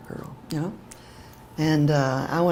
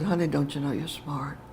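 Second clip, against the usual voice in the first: gentle reassurance; 5 dB quieter than usual. Retold or imitated. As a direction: retell it softly, as tender comfort. Retold teacher gently reassuring child.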